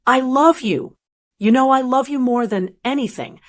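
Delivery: firm but kind. Acted. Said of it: "my voice was so firm, but so kind".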